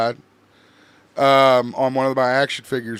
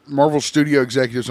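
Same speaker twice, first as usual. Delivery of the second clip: talking through hiccups; words broken by a hiccup. Real, not acted. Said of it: "I have the hiccups".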